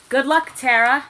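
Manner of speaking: high loud cheering call; mock cheering crowd; hammed-up cheer. A narrator's reading. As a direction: shout it like a crowd. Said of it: "Everyone cried".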